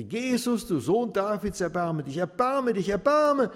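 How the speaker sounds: building to a very high, loud scream; desperate cry. Acted. Beggar screaming for mercy over the crowd, desperate cry. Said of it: "dem gellenden Ton".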